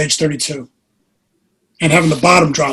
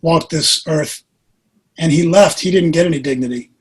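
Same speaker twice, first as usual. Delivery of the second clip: gentle admonition. Retold or imitated. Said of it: "she very gently said".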